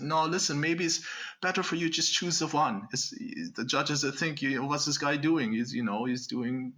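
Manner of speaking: a German organizer in Hollywood German; Hollywood German accent. Retold or imitated. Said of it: "my Hollywood German".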